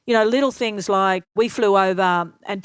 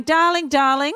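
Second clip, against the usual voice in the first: higher theatrical darling; Ken's darling voice; 7 semitones higher than usual. Retold or imitated. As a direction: gush it like a fussing friend.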